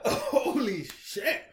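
strained, slow gasp after choking; choked up, forcing the words out; swallowed wrong way. Real, not acted. Shot went down wrong.

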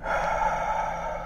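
long slow breath out through the mouth; deep exhale. Real, not acted. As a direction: let the held breath go. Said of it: "Second one, go".

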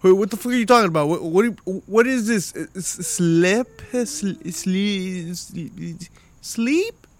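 high, fast baffled outburst; exhausted parent hamming up confusion, high and fast; mock disbelief. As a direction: act stunned that sleep exists. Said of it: "stand up and be like".

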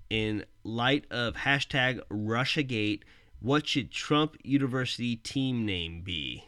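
slow, careful read of a tweet; reading aloud. Shown as a demonstration. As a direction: read it out word by word. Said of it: "it says".

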